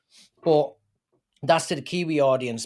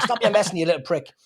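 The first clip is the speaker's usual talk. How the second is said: mock scolding man; 4 semitones higher, faster than usual. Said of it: "And then you're like".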